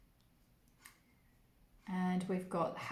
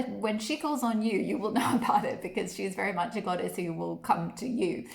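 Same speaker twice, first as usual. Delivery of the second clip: laughing; 5 dB louder than usual. Real, not acted. Laughing about goddess calling on you.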